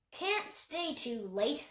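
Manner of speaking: slow, lightly voiced old man's grumble; a hint of a gruff grandfather, slowly; grumbling. Grandfather grumbling to Peter on arrival, slow and gruff. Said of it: "his grandfather grumbled".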